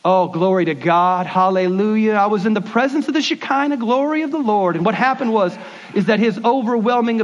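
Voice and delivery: mild mock holy-roller fervor; churchy Christianese. Pastor mocking Christianese talk, lightly hammed. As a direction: ham up the churchy jargon just a little. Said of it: "Don't use Christianese".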